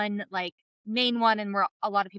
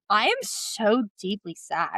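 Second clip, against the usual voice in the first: mock sad; slower than usual. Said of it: "and I was like".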